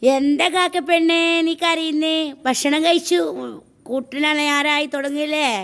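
high, sing-song pet talk; cooing to a crow. Real, not acted. Talking to a crow. (കാക്കയോട് കൊഞ്ചി പറയുന്നു)

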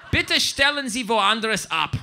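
emphatic, measured German admonishment; stern note reading. Acted. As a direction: read it like an officious caretaker.

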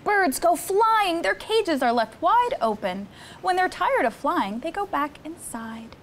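put-on lively read-aloud for children; storybook reading. Counselor reading Cat in the Hat book to campers, lively storytime. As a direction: read the rhymes to the kids with bounce.

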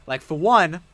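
loud, heated rant at a friend; angry rant at the friend who lost the Pokemon; retold chewing out. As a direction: tear into him again, half-mock. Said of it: "I fucking chewed into this man".

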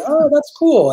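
high, loud breezy fan voice; mock casual fan. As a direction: toss it off like an impressed fan. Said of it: "and they'll be".

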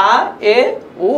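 "আ, এ, উ" as separate short vowels. Shown as a demonstration. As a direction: say "আ, এ, উ" briefly, pausing between. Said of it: "মুসাওয়াতে কোতার উচ্চারণগুলো খুবই সংক্ষিপ্ত".

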